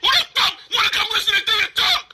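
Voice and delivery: rally the viewers against her at full volume; furious streamer yelling to his chat. Real, not acted. Heated argument, rallying the chat.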